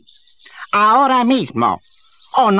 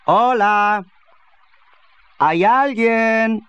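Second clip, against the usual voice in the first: calling out; 4 semitones higher, slower than usual. Acted. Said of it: "Probaré a gritos".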